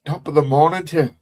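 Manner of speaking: reluctant try at an Irish lilt; Irish accent attempt. Shown as a demonstration. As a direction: have a tentative go at Irish. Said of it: "can't do an Irish accent".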